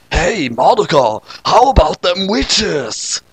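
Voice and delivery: a slow easy drawl-free chat; a hint of a laid-back guy, slow; guy casually asking about witches; lightly voiced Vaken, slow. Mister Vaken voice.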